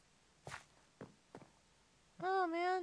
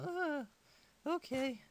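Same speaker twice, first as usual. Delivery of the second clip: sore throat; 5 semitones lower than usual. Real, not acted. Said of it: "I have a sore throat and my voice is going really low".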